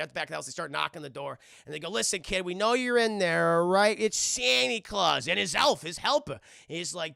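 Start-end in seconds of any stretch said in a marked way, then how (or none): 1.9-6.4 coaxing burglar. Retold or imitated. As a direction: call through the door to coax a kid. Burglars coaxing kid through the door.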